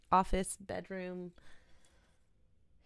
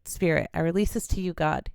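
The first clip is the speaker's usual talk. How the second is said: release affirmation demo. Shown as a demonstration. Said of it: "we're just gonna say".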